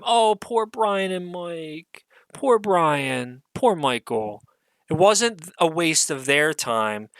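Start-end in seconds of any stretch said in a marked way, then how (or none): 0.0-4.4 slow, drawn-out fake sympathy; mock pity. Mocking the show's creators, slow fake sympathy. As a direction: pour on fake pity, slowly.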